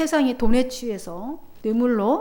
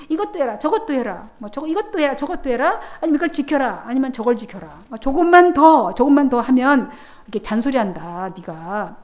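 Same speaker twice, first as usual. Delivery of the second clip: mocking. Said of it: "이렇게 말하는 거예요".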